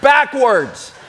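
backwards shouted through laughter; punchline with laugh. Acted. Preacher tells congregation the joke's end, laughing.

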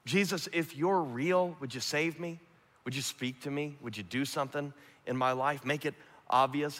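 quiet, simple pleading to God; gentle hushed prayer; soft prayer. Shown as a demonstration. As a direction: murmur it like a private prayer. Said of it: "it's a simple prayer".

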